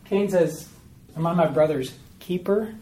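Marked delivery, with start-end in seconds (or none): 1.1-2.7 "keeper" set apart as a questioning word; emphasis on keeper. Acted. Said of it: "he puts the emphasis on the word keeper".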